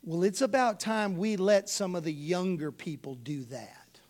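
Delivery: hushed whispered excuse; silly excuse. Pretend. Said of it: "say something silly like this".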